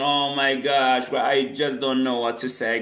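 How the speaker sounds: lightly hammed-up remorse; mock dismayed apology. Shown as a demonstration. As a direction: act out being lost for words. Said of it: "that's a very nice one".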